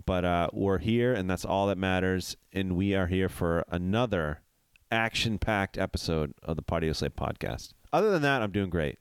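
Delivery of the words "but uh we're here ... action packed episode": stuffed-up nasal voice from a cold. Real, not acted. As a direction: talk through a blocked nose. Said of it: "hear it with the nasally voice".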